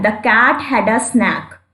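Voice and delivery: each word of The cat had a snack drawn out; slow example reading. Shown as a demonstration. Teacher reading the example sentence slowly for students.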